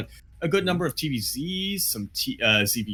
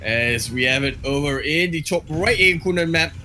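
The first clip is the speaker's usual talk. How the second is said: put-on pirate Aussie accent. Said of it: "my pirate Aussie into Kiwi accent".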